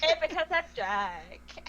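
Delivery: put-on slow slurred Valley Girl barmaid; drunk Valley Girl. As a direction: slur it like a tipsy barmaid. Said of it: "You are so drunk, you're not even enunciating".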